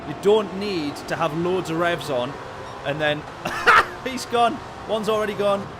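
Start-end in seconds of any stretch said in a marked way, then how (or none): 3.6-5.7 high burst of laughter; laughing surprise. Real, not acted. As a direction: laugh at the spin. Car spins at the start.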